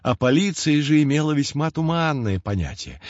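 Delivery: ordinary delivery, nothing marked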